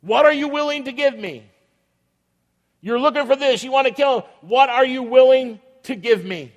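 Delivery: lightly voiced scheming traitor asking a price; Judas.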